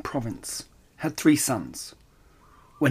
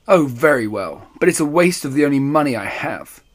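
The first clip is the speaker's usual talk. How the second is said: angry muttering; 3 dB louder than usual. Acted. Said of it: "he muttered angrily".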